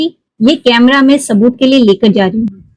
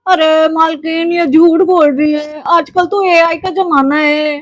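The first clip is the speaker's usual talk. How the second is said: lightly voiced sly servant; 6 semitones higher than usual. Servant lies to his employer.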